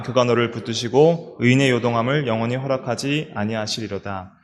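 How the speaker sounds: scripture reading. Shown as a demonstration. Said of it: "같이 읽어볼게요".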